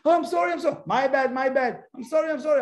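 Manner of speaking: mock over-apologizer. Mimicking people apologizing all day.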